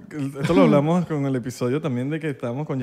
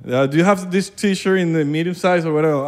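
mock Venezuelan English; 4 semitones higher than usual. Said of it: "trataba de hablar inglés".

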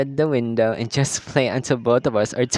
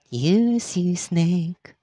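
slightly higher sly villain voice; sinister taunt; 4 semitones higher, much slower than usual. Acted. Voicing villain line.

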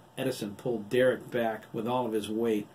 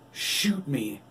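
daring shout; 4 semitones higher, 5 dB louder than usual. A narrator's reading. Wolf dares doctor to fire.

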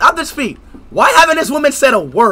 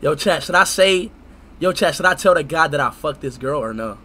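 lower, softer aside to chat; quiet aside; 11 semitones lower, 7 dB quieter than usual. Real, not acted. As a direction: drop your voice for a secret.

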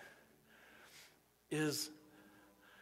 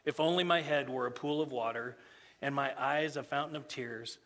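solemn scripture reading. Acted. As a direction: read the prophet's grief to the church. Rereads the scripture passage.

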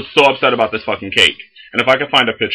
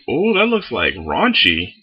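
mock surprise; 2 semitones higher, slower than usual. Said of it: "I'm like".

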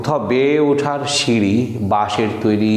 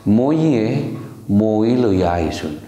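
Sylheti demo; 2 semitones lower than usual. Shown as a demonstration. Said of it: "Sylheti sentence demo".

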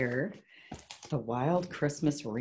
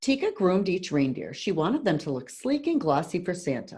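put-on measured read-aloud to children; story narration; 3 semitones higher than usual. A narrator's reading. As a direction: read a picture book to a class, clearly. Reads picture book aloud.

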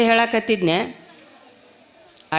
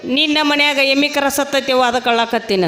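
lightly imitated tearful old woman; a touch of mock wailing, sinking at the end; mock weeping granny; 3 semitones higher than usual. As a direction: play the crying granny for laughs. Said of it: "ಯಾಕೆ ಅಜ್ಜಿ ಅಳಕತ್ತಿ".

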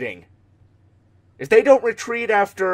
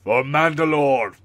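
military voice; 2 semitones lower than usual. Shown as a demonstration. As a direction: say it like a military commander. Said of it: "That military enough?".

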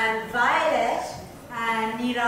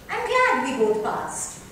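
bright, higher, sweetened tone; changing tactics; 9 semitones higher, 4 dB louder than usual. Acted. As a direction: switch to friendly small talk. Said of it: "changing tactics".

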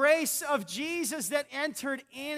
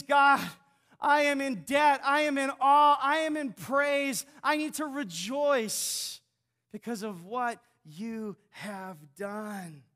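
grateful prayer. Pretend. Voicing worshipper's grateful prayer.

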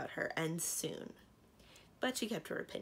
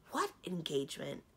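sharp. Acted. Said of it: "said Cimarine sharply".

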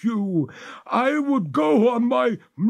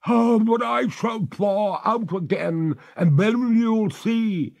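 high, louder, slowing threat; threatening ghost; 12 semitones higher, 6 dB louder than usual. A narrator's reading. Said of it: "cried the lady threateningly".

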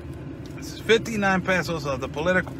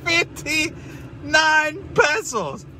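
mocking; 7 semitones higher, much slower than usual. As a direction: drag out the price in scorn. Mocking the price.

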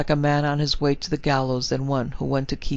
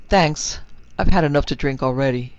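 curt, a little louder, brushing the offer off; said shortly; 4 dB louder than usual. Acted. Ned curtly turning down the offered drink, short. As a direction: clip the refusal short and firm. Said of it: "Ned said shortly".

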